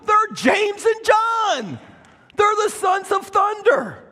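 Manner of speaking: shouting the brothers' swagger; proud shout. Acted. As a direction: belt out their boast. Preacher proclaiming the brothers' pride.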